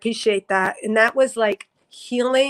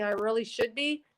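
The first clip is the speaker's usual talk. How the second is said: heavy; 8 dB quieter than usual. Shown as a demonstration. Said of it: "a little heavier".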